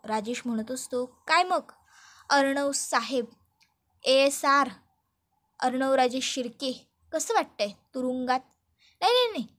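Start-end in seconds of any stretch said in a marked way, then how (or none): 1.1-8.4 sly, mocking villain taunting his rival; gloating villain. Rajesh taunts Arnav in jail, smug and gloating. 9.0-9.5 mocking denial. Villain mockingly cuts himself off.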